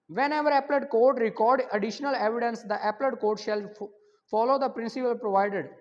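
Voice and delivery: dictating the exam question at half speed; slow dictation to the class; slow question read. Shown as a demonstration. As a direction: read the question slowly and clearly. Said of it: "question number ग्यारह है जी".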